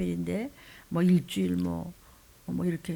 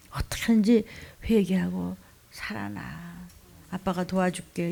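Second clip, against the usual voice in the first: tender father; 2 semitones lower, 3 dB quieter than usual. Acted. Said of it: "이런 얘기를 하는 거예요".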